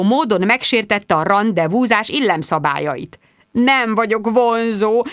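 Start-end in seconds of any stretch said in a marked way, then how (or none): 3.5-5.0 very slow hopeless lament; despairing. A narrator's reading. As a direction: say it defeated. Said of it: "reményvesztetten". (reményvesztett, lassú panasz)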